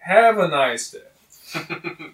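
slow, sarcastic sign-off; sarcastic drawl. Retold or imitated. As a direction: drag it out with sarcasm.

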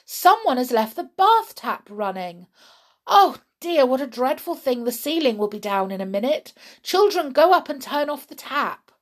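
high, loud fretting mother; dismayed orders. Acted. Mother ordering the children upstairs, dismayed. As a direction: fret and command at once.

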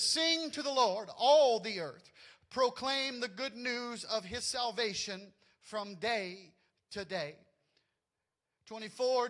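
slow, solemn Bible reading with a lift on the opening; scripture reading. Acted. Pastor reading Scripture to his congregation, slow and solemn. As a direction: read the verses with weight, as to a congregation.

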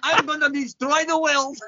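put-on film villain accent; Gru. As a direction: threaten like a cartoon villain. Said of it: "you sounded like Gru from Despicable Me".

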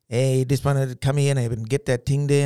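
loud, slow Aboriginal English storytelling voice; black fella voice. Shown as a demonstration. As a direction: boom it out slowly in broken-down Aboriginal English. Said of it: "I used to change my voice for the kids, like, talk black fella".

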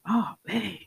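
unvoiced whisper of dismay. In the ER seeing bad results, whispered dismay. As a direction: let it slip out under your breath.

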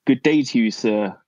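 put-on British politeness; attempted British accent. Shown as a demonstration. Taking up the accent challenge, mock British accent. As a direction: try a formal British greeting, accent a bit off. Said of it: "give me your best British accent".

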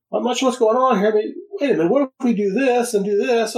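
imitating Lifeline. Retelling Lifeline's eureka moment.

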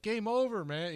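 high-pitched movie-quote whine of defeat; hammed-up high panic quote; Aliens guy panic. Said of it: "like the guy in Aliens".

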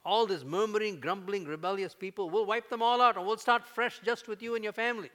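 loud, high, sweeping offer; booming voice of God. Acted. God tempting Moses with a fresh start, booming. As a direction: thunder the offer to start over.

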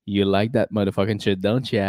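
hammed-up seductive murmur; mock sexy. Host repeating his mock sultry line to the mic. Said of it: "très sexuel, la manière que je parle".

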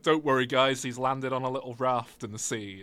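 high, alarmed fake gasp; hammed-up alarm, then fake reassurance; mock panic. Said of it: "They were like".

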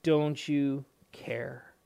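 slow desperate plea; mild slow pleading cry; pleading disciples. Retold or imitated. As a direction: beg Jesus slowly, half-voiced. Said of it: "their statement is this".

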